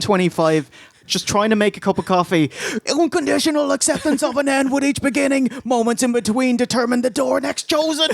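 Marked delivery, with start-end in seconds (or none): 2.9-8.1 high robotic droning recital; mock Dalek voice reciting to the wife; Dalek-like reading. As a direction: intone it like a robot reading scripture. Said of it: "You sound like a fucking Dalek".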